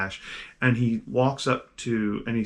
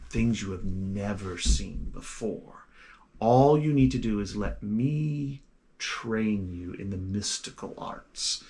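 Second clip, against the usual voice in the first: put-on softly persuasive old gentleman, slow; slow hushed mentor's offer; 2 semitones lower, 4 dB quieter, slower than usual. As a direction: draw him in slowly and quietly.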